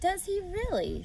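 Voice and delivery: high, slow, absent-minded; vague reply. Acted. Worried mother answering her daughter, vague. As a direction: answer without really listening. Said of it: "said Missus Arable rather vaguely".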